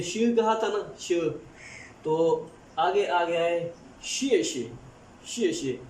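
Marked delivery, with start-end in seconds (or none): 4.0-4.7 शिए शे said slowly, शिए gliding into शे; slow pronunciation demo. Shown as a demonstration. Teacher introduces शिए शे slowly to the class. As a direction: stretch out शिए शे for beginners. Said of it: "एक्स I E".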